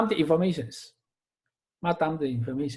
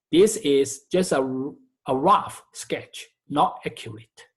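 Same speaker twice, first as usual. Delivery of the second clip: "rough" stressed, set apart by short pauses; emphatic caveat; 3 semitones lower than usual. Real, not acted. Teacher cautioning students about the rough sketch, emphatic. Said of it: "let me emphasize that".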